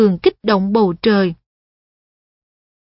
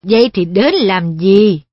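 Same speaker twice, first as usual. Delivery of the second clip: put-on a puzzled blind old man; 3 semitones lower, 4 dB louder than usual. Wolfram asks.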